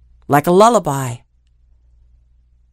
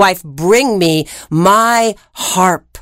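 commanding giant; slower than usual. Acted. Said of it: "pounded the table ... and said".

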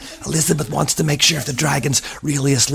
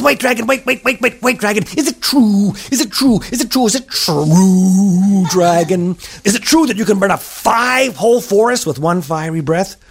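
high, pleading little princess voice; higher coaxing girl voice flattering the dragon; eager princess; 3 semitones higher than usual. Acted. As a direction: beg the dragon sweetly, higher.

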